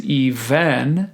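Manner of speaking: "even" said ee-VEN, with a full e in the second syllable; wrong syllable emphasized. Shown as a demonstration. Choir teacher showing singers a mistake, second syllable overemphasized in "even". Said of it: "incorrectly emphasizing parts of the word".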